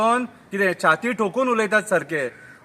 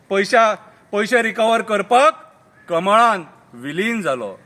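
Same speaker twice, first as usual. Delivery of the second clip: slow, deliberate full-voiced line; declaimed verse; 3 dB louder, slower than usual. Cumbarjua politician explains his merger, slow declamation. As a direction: declaim it slowly, dropping on the last word. First take of repeated verse.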